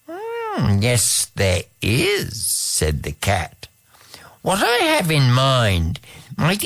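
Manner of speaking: knowing, mysterious cat; a cat hinting at a secret plan. Acted. Cat speaking, far timbre.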